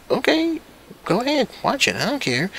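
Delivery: high, breezy mock parent; careless parent. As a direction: sing it out like a lazy parent. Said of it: "And they're like".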